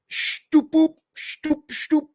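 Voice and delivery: high squeaky shtoop-boop noises; squeaky high cartoon noise; rising sound effect. Sound effect for death toll rising.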